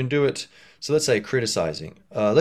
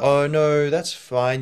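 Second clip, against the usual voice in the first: raised, louder dismissive protest; mock refusal; 6 semitones higher, 6 dB louder, much slower than usual. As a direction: act out someone brushing off the complaint. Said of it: "or if they're like".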